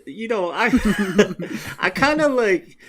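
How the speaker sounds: high laughing burst while talking. Real, not acted. Laughing as he tells co-hosts about the book. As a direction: get the words out through a laugh.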